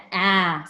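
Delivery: "ah" said open and short, like the a in apple; short a sound. Shown as a demonstration. Teacher showing the class the short A, a clear "ah". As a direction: give the pure short "ah" of apple. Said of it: "it's making the".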